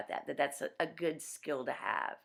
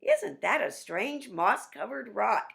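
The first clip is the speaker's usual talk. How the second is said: slow, higher wondering Lion; 5 semitones higher, 4 dB louder than usual. Acted. Lion falling for the trick, slow and higher. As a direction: marvel slowly as the Lion. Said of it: "And Lion goes".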